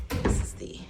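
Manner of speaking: whispering. Real, not acted. Filming quietly in hotel room.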